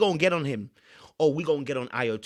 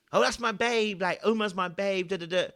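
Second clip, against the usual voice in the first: mocking Jess; 3 semitones higher than usual. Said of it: "Especially Jess".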